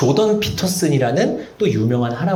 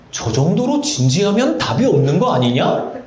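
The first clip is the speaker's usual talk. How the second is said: laughing student; 4 semitones higher than usual. Retold or imitated. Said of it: "친구들끼리 얘기해요".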